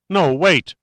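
a touch of feigned panic; panicked protest. Acted. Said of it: "Pitt choked the words off".

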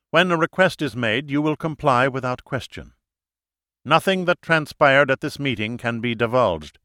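stern, authoritative instructions; commanding leader. Acted. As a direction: lay down the rules, no debate. Leader briefs group, raised pitch.

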